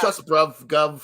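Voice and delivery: a mock British accent on bruv; lightly put-on London accent. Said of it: "why they just like".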